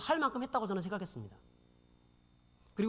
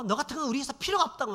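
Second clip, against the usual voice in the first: retold yell; 6 semitones higher, 4 dB louder than usual. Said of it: "막 얘기하는 겁니다".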